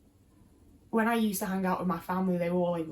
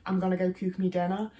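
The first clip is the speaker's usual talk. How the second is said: put-on Midlands accent. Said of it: "people around me said".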